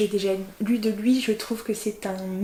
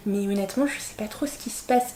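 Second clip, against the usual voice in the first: whispered aside; 6 dB quieter, faster than usual. Real, not acted. Confiding aside about the sequel.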